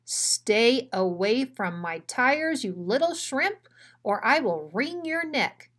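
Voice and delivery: big dog warning the little one off his tires; menacing bully dog. Acted. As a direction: lean on every word like a thug. Bruiser threatens Drover.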